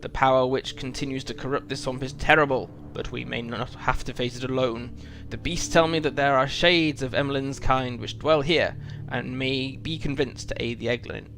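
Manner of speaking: lightly voiced wise old wizard, grave; a hint of a stern old wizard; wizard dialogue read aloud. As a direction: read it like a solemn wizard giving warning. Reads the wizard's quest dialogue.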